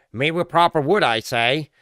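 loud, plummy British indignation; mock posh British. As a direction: huff like an offended English gent.

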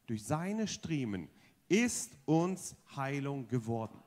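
slow, measured unison chant; reciting together. Shown as a demonstration. Preacher leads the church in speaking the verse together, slow and measured. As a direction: lead the congregation word by word, slowly. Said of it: "Können wir die letzten paar Worte zusammen sagen?".

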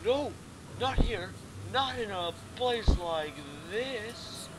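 acted panic. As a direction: plead in theatrical horror. Acting out game character's panic.

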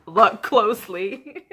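drawn-out, loud look closely; slow insistence. Retold or imitated. Urging a friend to study the notebook, slow and loud. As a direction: stretch it out, pointing at the notebook.

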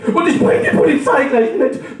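very high, slow yelled threat; roaring threat up the stairs before slamming the door; full-throated roar. Acted. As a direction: bellow it at the top of your lungs. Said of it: "brüll ich aus voller Kehle".

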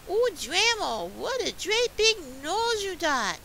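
put-on high, loud girlish amazement; uneasy storybook little girl; a little scared. A narrator's reading. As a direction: exclaim way up high as Red Riding Hood. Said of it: "she's kinda scared a little".

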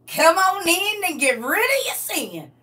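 playful Southern white voice; white country Southern voice. Pretend. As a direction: beckon folks in with a put-on country twang. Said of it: "you do the white voices".

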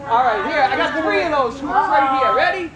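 put-on upbeat showman patter for kids; kids party magician. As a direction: hype up the young audience.

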